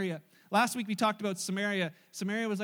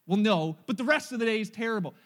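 put-on loud whiny kid digging in; a sulky boy who won't give in; stubborn child; 7 dB louder than usual. Son voiced in retold quarrel.

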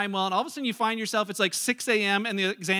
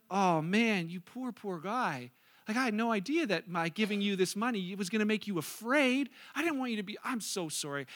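gently console, as if apologizing; sympathetic; 2 semitones lower, 3 dB quieter than usual. Acted. Imagined soft answer to failed servant.

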